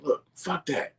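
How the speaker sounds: high, pleading mock voice; white dude impression. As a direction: beg in a high put-on voice. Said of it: "He like".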